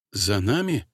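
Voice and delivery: soft, lisping voice with slushy s; quietly, with a lisp, hopeful. Acted. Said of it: "тихим, шепелявым голосом".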